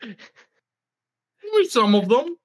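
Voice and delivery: eerie slow voice. Acted. GM answers eerie crying horses.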